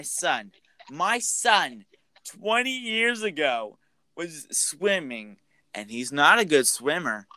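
acted bitter mother blaming the counselors; Missus Voorhees. Voicing Voorhees's accusing rant.

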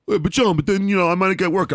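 high, anxious objection; worried Gary voice. Retold or imitated. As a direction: fret about losing work. Gary objecting in retold scene.

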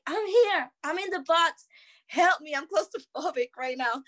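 high-pitched retold cry for help; mock screaming. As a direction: act out calling from inside a box, pitch jumping up. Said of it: "And I'm screaming".

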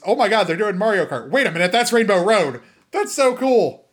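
excitement building to a high finish; excited reaction. Retold or imitated. Host replays spotting Rainbow Road in the trailer, excited. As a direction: replay a fan's giddy amazement.

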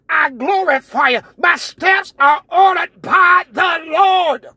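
rising, rhythmic preacher's call; preaching at full force. Real, not acted. Climactic preaching run.

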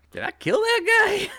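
a waiter suddenly fearing the worst; panicked waiter. Pretend. Co-host voicing a waiter who fears a diner died, high panic.

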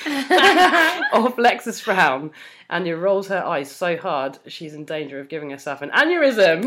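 measured fan fiction reading; story narration. A narrator's reading. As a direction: read it out like an audiobook narrator. Reads fan fiction aloud.

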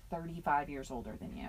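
hushed whisper. Retold or imitated. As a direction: say it under your breath. Whispered aside quote.

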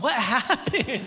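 loud, drawn-out astonished question; slow, comic disbelief; startled wife. Retold or imitated. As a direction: imitate a baffled wife walking in. Wife walks in on crying husband.

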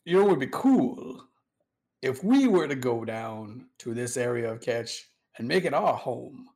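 a hint of a Southern general pitching a grand plan; old Southern general. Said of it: "like an old Southern general".

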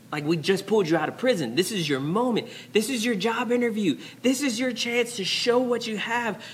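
acted exasperation, climbing in pitch; incredulous protest. Urging Joseph at his job interview, mounting incredulity. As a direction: build from quick disbelief to high-pitched urging.

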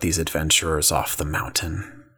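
low, cold villain order; calm villain command. Acted. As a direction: coolly dismiss them. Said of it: "he looks back and says".

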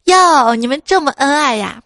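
high, loud exclamation easing into teasing; playfully mock-impressed; smiling tease. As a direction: tease them with a smile in the voice. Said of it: "就笑着说".

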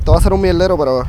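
loud voice over the wind; shouting over wind. Real, not acted. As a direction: call it out over wind noise. Outdoors, wind noise, recording.

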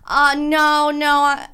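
nervous stammer to the cop; scared stammer. Retold or imitated. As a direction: retell freezing up in panic. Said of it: "I s-, almost started crying".

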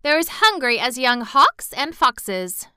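put-on chatty Yorkshire servant girl, rattling on; Yorkshire maid gossiping cheerfully; Martha's Yorkshire voice. A narrator's reading. Martha explains hunger.

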